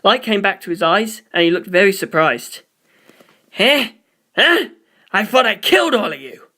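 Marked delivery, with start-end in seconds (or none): 3.5-6.5 high, shocked cries; startled confusion. Acted. Narancia waking up shocked to see them alive. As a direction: jump high, bewildered.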